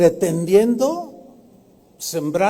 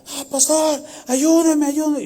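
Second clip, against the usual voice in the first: imitating crying plea; 9 semitones higher than usual. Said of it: "estaba llorando el pastor".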